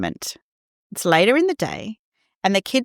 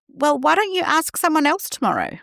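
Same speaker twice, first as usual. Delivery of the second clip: high, bright-voiced quick advice; eager fixing parent; 9 semitones higher than usual. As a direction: jump in to fix it, pitched up. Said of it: "we jump in with".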